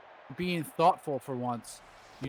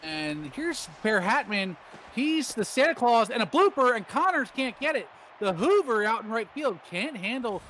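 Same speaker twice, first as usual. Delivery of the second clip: lively play-by-play; 3 semitones higher than usual. Acted. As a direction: call the plays as they happen. Live play-by-play of the game.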